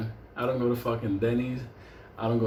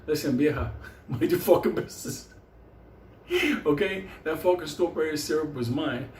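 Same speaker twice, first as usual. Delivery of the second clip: put-on old lady; 3 semitones higher than usual. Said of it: "like, old lady".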